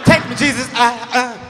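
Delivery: mock swooning grandmom; fake pass out. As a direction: call out, then trail into a faked faint. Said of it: "the king of fake pass outs".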